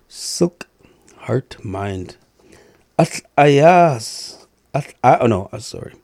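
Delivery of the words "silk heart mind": a hushed echo of the lyric; whisper. Shown as a demonstration. Teaching the love song, a whispered echo. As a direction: breathe the words with no voice.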